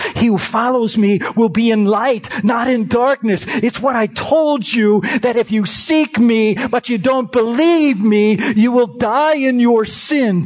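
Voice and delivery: preacher warning the unbelievers; preaching at full force. Real, not acted. Preaching climax, rising.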